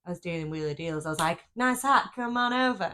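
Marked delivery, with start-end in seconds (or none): 1.6-2.9 pushy salesperson. Pretend. Mock salesperson pitch.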